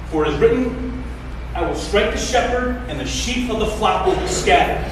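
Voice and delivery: emphatic pulpit reading; scripture reading. Real, not acted. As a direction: proclaim the words of Jesus to the congregation. Reads scripture aloud to congregation.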